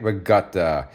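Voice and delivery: "Ricotta" with the K softened toward a G; "Ricotta" Italian-American style; Italian pronunciation. Shown as a demonstration. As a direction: say "Ricotta" thinking of a G. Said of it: "with a G in my mind".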